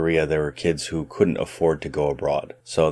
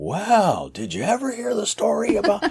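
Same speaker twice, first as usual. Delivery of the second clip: mock goofy old storyteller voice, higher. Mocking the stereotype of a classroom storyteller: put-on goofy old storyteller voice. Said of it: "a goofy person with gray hair and a funny hat".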